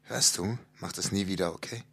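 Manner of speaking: very soft, low menacing whisper; quiet threat. Pretend. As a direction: hiss it close to his ear, menacing. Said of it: "So, so ganz leis".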